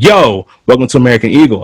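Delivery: imitated casual, abrasive store welcome; abrasive greeting. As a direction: toss out the greeting with a blunt YO. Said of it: "kind of abrasive".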